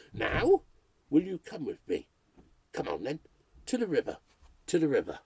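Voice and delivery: a nervous broadcaster talking to listeners; lightly voiced radio ghost hunter. Radio ghost hunter alone in a haunted house, uneasy.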